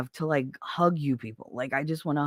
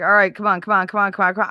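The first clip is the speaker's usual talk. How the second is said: impatient mother; 4 semitones higher, 7 dB louder, much faster than usual. Retold or imitated. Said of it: "it was like".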